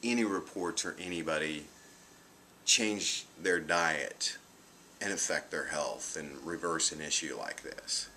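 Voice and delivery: a hint of a flat, dismissive doctor. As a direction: drag it out, bored and unmoved. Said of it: "He flat looks at me and goes".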